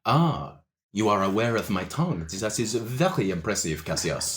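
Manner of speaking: a hint of a smooth French charmer; French-accented orc. GM plays Le Chat.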